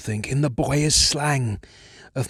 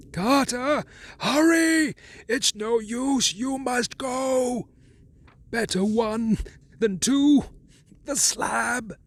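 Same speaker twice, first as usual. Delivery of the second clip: tense whisper; 12 semitones higher, slower than usual. A narrator's reading. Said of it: "his next whisper".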